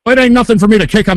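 loud furious ranting; angry rant. Acted. Prank caller yelling at the phone operator, furious. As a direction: yell it like a hothead spoiling for a fight.

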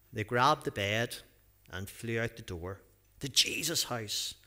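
lively storybook reading with acted voices; reading a story to children. A narrator's reading. Pastor reading a Bible story to children, lively storytelling. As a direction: read it out like a picture book for the kids.

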